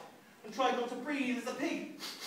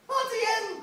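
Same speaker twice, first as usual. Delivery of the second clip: higher, louder happy call; joyful cry; 10 semitones higher, 7 dB louder than usual. Acted. Boy cries out to Auntie Em in joy. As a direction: call her name in relief. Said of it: "cried Ralph".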